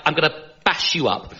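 feeble posh threat, softly spoken; posh accent. Acted. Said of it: "Where my accent's like".

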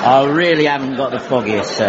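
wandering fake English accent, low; unique accent. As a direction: put on a dodgy English accent. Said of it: "it has this unique accent".

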